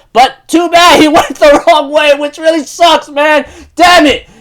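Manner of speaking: exasperated frustration. Real, not acted. Fan upset Yuki went the wrong way, exasperated.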